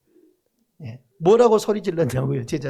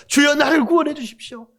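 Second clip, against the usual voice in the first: raised, louder cry for rescue; mock desperate plea; 6 semitones higher, 3 dB louder than usual. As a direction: beg to be saved from drowning. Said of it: "소리 지릅니다".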